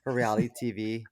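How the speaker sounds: meek, apologetic mock politeness; overly polite. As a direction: beg politely like a pushover. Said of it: "you were like".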